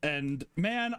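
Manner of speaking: ordinary talk, nothing marked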